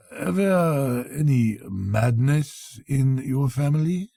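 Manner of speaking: matter-of-fact. Acted. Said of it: "with a matter-of-fact tone".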